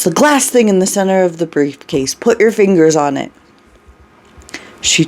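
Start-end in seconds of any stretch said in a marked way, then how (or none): 0.0-3.3 raised voice, higher at first; pressing, agitated command; urgent order. Acted. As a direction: instruct frantically with no time to spare. Continues urgent shouted order after scream.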